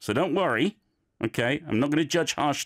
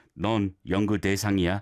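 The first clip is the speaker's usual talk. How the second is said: even, flat monotone, no ups and downs; 4 semitones lower than usual. Showing a learner how to say the line without going up and down: monotone delivery. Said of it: "a monotone, or just keep it on a similar level".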